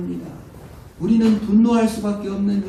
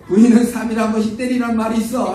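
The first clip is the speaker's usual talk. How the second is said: laughing mock threat; 6 semitones higher, 6 dB louder than usual. Husband quoting old saying laughing.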